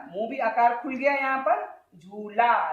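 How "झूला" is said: झूला with an open, long ला; long झू into wide ला; open laa. Shown as a demonstration. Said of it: "ला में आपका मुंह खुला हुआ रहता है".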